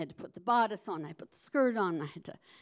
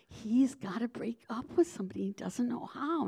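confiding whisper; whispered secret; 3 semitones higher than usual. Retold or imitated. Girl confiding the secret while fixing hair. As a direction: lean in and whisper it.

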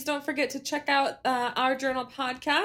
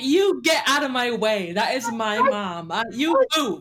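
slow, firm mock-angry daughter; a touch of tearful outrage, laughing at the end; upset daughter; 3 dB louder than usual. Daughter blocking nurses from her injured mom, mock furious. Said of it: "Neo was like".

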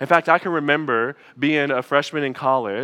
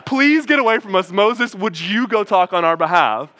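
louder, higher mock-panicked plea; frightened pleading; 3 semitones higher, 4 dB louder than usual. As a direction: beg them to back off, half-acted fear. Terrified people beg Moses.

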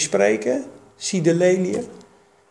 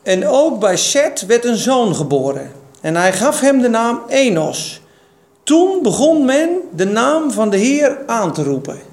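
louder, lightly proclaimed Bible reading; scripture reading; 5 semitones higher, 4 dB louder than usual. Acted. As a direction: read the verse out to the room. Reads scripture aloud. (voorgelezen Bijbeltekst, iets luider)

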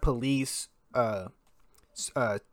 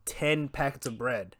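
hushed aside; 6 dB quieter than usual. Real, not acted. Aside explaining the shelves.

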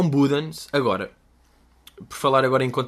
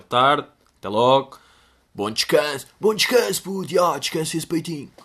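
casual goodbye; 2 semitones higher than usual. Retold or imitated. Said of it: "mandamos aquele".

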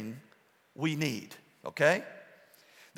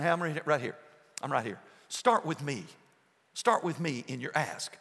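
softer, lower, reassuring Father; gentle fatherly voice; 4 semitones lower, 5 dB quieter than usual. Retold or imitated. Heavenly Father speaking to his children, softer and reassuring. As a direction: invite them tenderly. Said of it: "your Father in heaven is saying".

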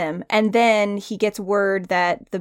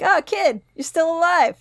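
offhand greeting; 8 semitones higher than usual. Acted. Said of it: "one of those things like".

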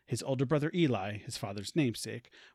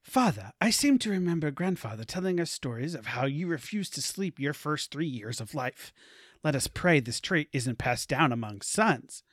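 jovial brother. Acted. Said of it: "replies his brother jovially".

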